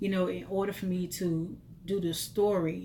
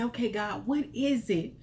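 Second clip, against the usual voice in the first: pleading prayer; 4 semitones higher than usual. Retold or imitated. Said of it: "I began to say".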